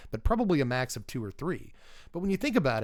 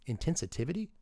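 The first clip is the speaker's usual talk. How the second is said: questioning own word; 6 dB quieter than usual. Real, not acted.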